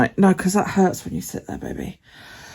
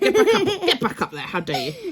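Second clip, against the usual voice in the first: high giggly laugh; 12 semitones higher, 7 dB quieter than usual. Real, not acted. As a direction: laugh through it, pitched up.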